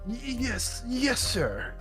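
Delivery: put-on a nervous old man answering. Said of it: "do the judge for an old man voice. Can you do this, old man?".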